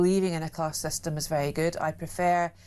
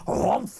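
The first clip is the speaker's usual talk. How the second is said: loud gobbling "humph"; imitated dog chomp; 4 dB louder than usual. Woman mimics a dog at crisps in a pub, greedy chomp. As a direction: mimic a dog snatching food.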